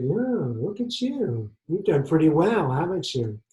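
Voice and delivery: visiting ID man. Acted. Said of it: "And Stan said".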